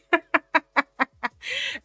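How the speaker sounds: high sarcastic laugh. Real, not acted. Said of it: "I'm laughing 'cause I'm being sarcastic".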